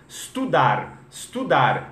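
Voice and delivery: "estudar" repeated as "studar", falling; estudar without E. Shown as a demonstration. Teacher repeating the drill, "estudar" with no E. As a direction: start each "estudar" on bare S. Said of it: "tira o E do estudar".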